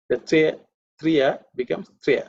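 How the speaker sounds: "three" moving from "tri-ya" to a run-together "trya"; blending demonstration. Shown as a demonstration. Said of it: "If you practice".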